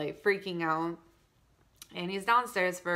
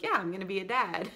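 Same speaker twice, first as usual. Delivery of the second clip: laughing nonchalance; faster than usual. Retold or imitated. Husband's casual reaction.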